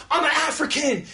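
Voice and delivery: chorus call. Retold or imitated. Rapper leading call and response, shouted call. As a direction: call it out to the crowd. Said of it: "they're like".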